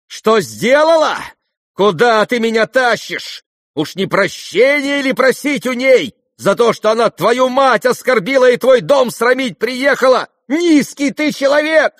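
high, loud, triumphant shouting; defiant shout. A narrator's reading. Varya defying her brother, triumphant. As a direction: hurl it at him in defiance. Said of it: "крикнула опять Варя, торжествуя с вызовом".

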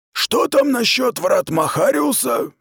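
a stern officer speaking down to her, unhurried; commander's voice from above. Acted. Commander calls down to the cornered girl, stern and slow.

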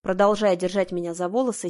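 ordinary delivery

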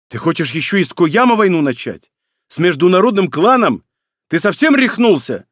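high, loud, building anger; shouting match. Acted. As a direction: yell it in disbelief. Brothers' quarrel, rising.

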